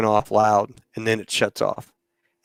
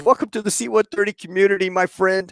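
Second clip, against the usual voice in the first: higher-pitched, approving retold welcome; congratulating; 6 semitones higher than usual. Captain welcoming the pranked new pilot, congratulating. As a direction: welcome him in with raised, encouraging pitch.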